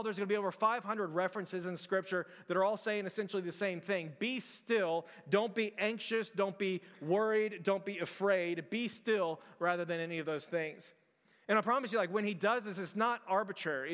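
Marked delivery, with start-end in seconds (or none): 5.3-8.7 each don't landed slow and firm; slow commands. Real, not acted. Preacher commands the church, slow and firm. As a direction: drive each command home slowly.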